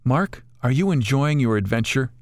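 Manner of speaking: lightly voiced old lady bird, gently asking; aged female bird voice. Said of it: "Speaking in an aged female voice".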